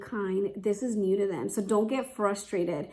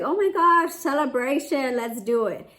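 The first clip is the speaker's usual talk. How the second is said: retold burst of joy, pitched up and louder on oh my gosh; excited; 3 semitones higher, 3 dB louder than usual. Mom recalling her relief when baby napped easily, excited. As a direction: squeal it out like a mom whose baby finally naps. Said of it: "So I was like".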